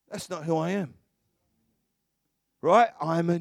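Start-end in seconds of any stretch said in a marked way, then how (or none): 0.1-0.9 softer, matter-of-fact, no push; just say it quietly as fact; quiet simple statement. Shown as a demonstration. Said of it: "when you just go".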